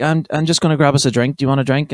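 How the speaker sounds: a hint of a young girl offering politely; lightly imitated girl voice; wee girl. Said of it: "then the girl would be like".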